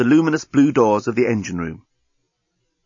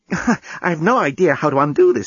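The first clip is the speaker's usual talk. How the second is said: Lucy's voice; 5 semitones higher than usual. A narrator's reading. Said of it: "she said".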